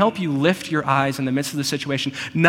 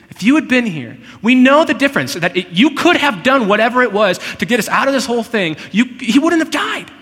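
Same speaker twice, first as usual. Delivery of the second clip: much higher and louder, crying out; anguished plea; 9 semitones higher, 8 dB louder than usual. Acted. Mary pleads with Jesus over her dead brother, high anguished cry. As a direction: cry out the lament as the grieving sister. Mary's grief voiced by preacher.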